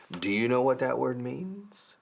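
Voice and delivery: slow, careful question; slow teaching question. Shown as a demonstration. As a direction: ask it slowly for learners. Asks learners slowly.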